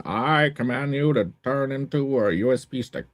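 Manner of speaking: lightly voiced wise old narrator; Morgan Freeman. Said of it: "That's a pretty good Morgan Freeman".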